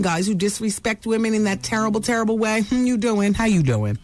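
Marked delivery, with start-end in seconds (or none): 2.6-3.3 Joey catchphrase. Pretend. Host teasing the star with a flirty pickup. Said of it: "We should just say it". 3.3-4.0 Joey catchphrase. Pretend. Host teasing the star with a low flirty pickup. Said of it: "We should just say it".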